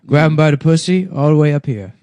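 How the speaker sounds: lightly put-on, slurred impression voice; Donald Trump. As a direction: loose mock-politician voice. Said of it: "Trump with a retarded voice".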